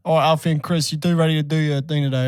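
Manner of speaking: mock British show host; British accent. Host greeting contestants on a British show, British accent. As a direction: put on a chatty British presenter's accent. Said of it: "They need to be British".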